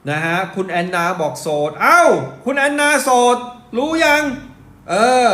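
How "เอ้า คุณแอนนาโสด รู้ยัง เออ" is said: loud and higher, blurting it out; too loud. Real, not acted. Host announcing to the stream that Anna is single, loud. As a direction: call it out louder than you mean to. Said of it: "ผมพูดดังไปนิดนึงนะ".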